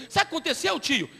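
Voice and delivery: a hint of a wheedling young caller; scam caller. Prisoner calling the pastor collect, lightly wheedling.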